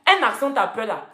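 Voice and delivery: imitating Parisian slang talk; lightly mocked Parisian speech. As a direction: quote Paris speech mockingly. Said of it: "C'est comme ça, il parle à Paris maintenant".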